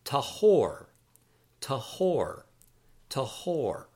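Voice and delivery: "tahor" as tah-HOR, falling at the end; pronunciation demo. Shown as a demonstration. Teacher models the adjective clean or pure, careful pronunciation of "tahor" as tah-HOR. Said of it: "the adjective clean or pure is tahor".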